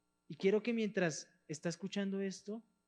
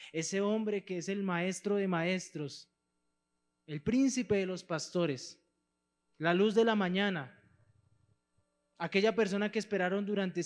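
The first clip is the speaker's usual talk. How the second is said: preaching; 4 dB louder than usual. Acted. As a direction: lift the congregation to the climax. Climactic preaching over music.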